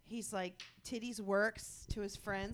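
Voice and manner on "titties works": guide's catchphrase. Retold or imitated. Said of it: "He says titties every time the same way".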